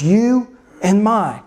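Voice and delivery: "you" and "my" each drawn out slowly; stress on YOU and MY. Shown as a demonstration. Preacher pointing out the Greek emphasis, slow stress on YOU and MY. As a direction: set "you" and "my" apart, slow and deliberate. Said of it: "those two words".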